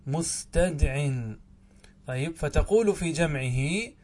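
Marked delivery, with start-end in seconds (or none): 0.1-1.1 مستدع drawn out syllable by syllable; slow teaching repetition of مستدع; slow spelled-out word. Shown as a demonstration. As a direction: say مستدع very slowly so students catch each sound. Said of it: "ومثال الأولى مستدع".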